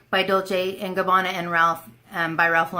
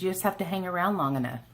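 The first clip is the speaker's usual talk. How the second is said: ordinary talk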